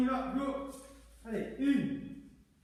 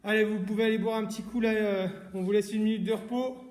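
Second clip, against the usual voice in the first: called out louder and faster; 7 dB louder than usual. Real, not acted. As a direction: repeat it loud so all hear. Repeats instruction louder.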